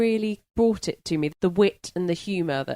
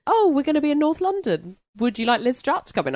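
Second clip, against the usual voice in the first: imitating the publicist; 9 semitones higher, 4 dB louder than usual. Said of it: "a call from her publicist".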